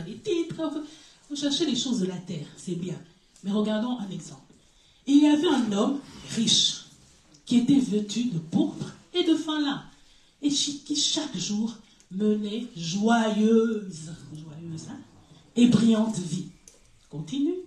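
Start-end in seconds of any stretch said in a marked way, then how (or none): 5.1-16.5 reading scripture slowly to the class; lecture biblique. Acted. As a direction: read the verse with weight. (lecture posée d'un verset)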